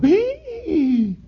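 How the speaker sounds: sudden very high frightened squeak; startled yelp. Acted. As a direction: jump awake in fright. Jacob despierta espantado. (grito agudo de susto)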